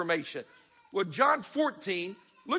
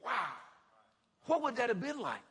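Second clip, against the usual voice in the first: hushed wonder; 3 semitones higher, 7 dB quieter than usual. Retold or imitated. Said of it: "it's like".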